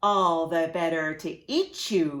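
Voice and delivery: snapped. Acted. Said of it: "he snapped".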